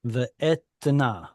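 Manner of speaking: etna read slowly, syllable by syllable, testing the schwa; teacher sounds out etna slowly; slow careful reading. Shown as a demonstration. Teacher asking the class about the schwa, sounding out etna slowly. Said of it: "audible or silent schwa?".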